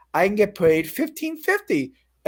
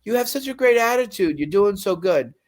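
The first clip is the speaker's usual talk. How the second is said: 1 mimicking the boss; 3 semitones higher than usual. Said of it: "the guy that fired me told me".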